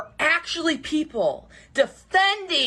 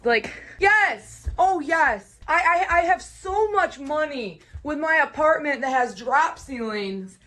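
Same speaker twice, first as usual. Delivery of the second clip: sarcastic; 6 semitones higher than usual. Real, not acted. Mom mocking scam claims.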